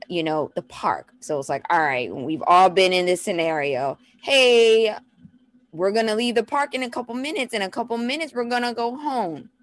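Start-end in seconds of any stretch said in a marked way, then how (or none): 4.2-9.5 put-on higher-pitched parent calling to kids; acted wordy mom warning; parent's announcement. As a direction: announce it in a long singsong run. Parent warning toddler at park.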